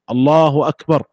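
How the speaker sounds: الله أكبر closed on a vowelless final r; stopped with sukun. Shown as a demonstration. Teacher illustrating jazm, takbir ended with sukun. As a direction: end أكبر on a still r and stop. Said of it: "مجزوم بالسكون".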